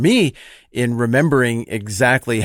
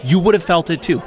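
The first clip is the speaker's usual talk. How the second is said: a self-righteous religious man venting, voice pitched higher and pressing; righteous outrage, building as he justifies himself; indignant Pharisee rant; 4 semitones higher than usual. Acted. Jeff the Pharisee complains to his buddy Mike, indignant and preachy. Pharisee rants about Jesus.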